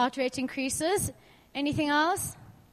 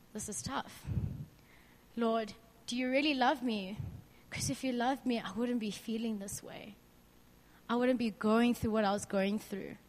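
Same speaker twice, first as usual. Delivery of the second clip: low, soft, downhearted plea to God; subdued, hurting confession; despairing prayer; 4 semitones lower, 7 dB quieter than usual. Retold or imitated. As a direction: quietly question God, worn down. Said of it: "didn't want to be a Christian anymore".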